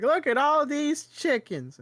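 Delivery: high, slow and loud, full of wonder; meme girl voice. Retold or imitated. Retelling the viral ducks video to a friend, high and amazed. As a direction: marvel at the ducks like a little girl. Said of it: "and then she's like".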